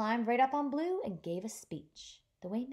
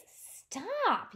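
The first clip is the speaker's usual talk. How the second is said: yelled stop; 10 semitones higher than usual. Acted. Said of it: "yelled Blue".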